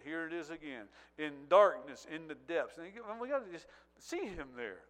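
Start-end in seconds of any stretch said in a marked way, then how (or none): 1.2-4.8 loud, slow, anguished scripture reading; preacher cries out the Psalm as Jesus, loud and aching; anguished cry. Acted. Preacher voicing Jesus's cry to the Father, loud and slow.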